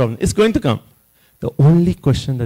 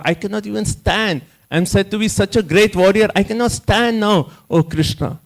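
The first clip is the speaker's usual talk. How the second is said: raised, pleading voice as Arjuna falling apart; Arjuna's emotional breakdown; 6 semitones higher than usual. Retold or imitated. Arjuna pleading with Krishna in a higher, pleading voice. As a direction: plead higher to Krishna, a warrior who cannot stand. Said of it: "He has such an emotional breakdown that he says".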